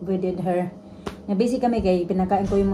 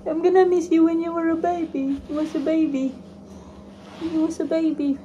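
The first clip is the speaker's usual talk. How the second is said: tag; 7 semitones higher than usual. Pretend. Mother fondly cooing to child.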